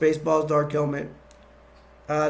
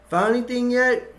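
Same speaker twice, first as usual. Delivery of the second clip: barked question; 9 semitones higher, 5 dB louder than usual. Retold or imitated. Dark Helmet checks troopers again.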